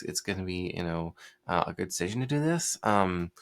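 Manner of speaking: halting, hedging, full of ums; hesitant and unsure. Shown as a demonstration. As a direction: sound apologetic, like you doubt the sale. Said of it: "I'm sounding like the United States military".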